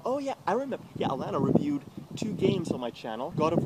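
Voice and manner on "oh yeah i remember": imitating troll. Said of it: "the troll goes".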